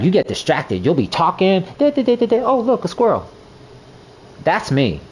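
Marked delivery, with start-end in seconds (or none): 0.0-3.3 higher, teasing mimic of a scatterbrain; mock coworker teasing. Coworker mocking him for getting distracted, higher teasing voice. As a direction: poke fun at his distraction. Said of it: "she was like".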